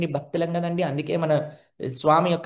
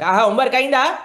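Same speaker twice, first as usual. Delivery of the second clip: checking parent; 8 semitones higher, 9 dB louder than usual. Acted.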